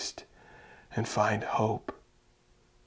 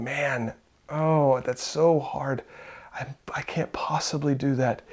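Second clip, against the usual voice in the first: a hushed, hopeless aside; mock despairing whisper. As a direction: whisper it like giving up. Voicing a discouraged listener's thought.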